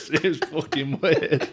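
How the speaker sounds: said slowly through laughter; laughing. Real, not acted. Laughing after feet story.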